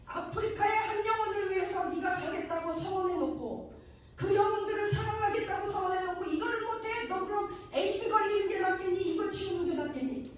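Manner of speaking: high, loud scolding questions; divine rebuke. Retold or imitated. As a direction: scold him as the Spirit, demanding. Spirit rebuking the pastor.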